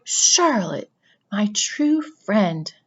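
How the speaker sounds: moaning. Acted. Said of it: "he moaned".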